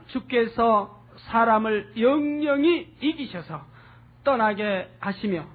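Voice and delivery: slow, measured reading with 영영히 stretched; scripture reading. Acted. Preacher reading the verse aloud to the congregation, slow and solemn. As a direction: read the verse out slowly and solemnly.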